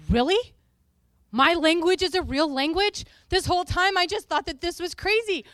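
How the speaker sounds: thrilled she isn't crazy; excited disbelief. Retold or imitated. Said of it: "the girl ... goes".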